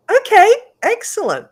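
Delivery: high, loud mock-professional reply; put-on adult voice. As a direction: play the keen grown-up on the phone. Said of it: "I put on my adult voice".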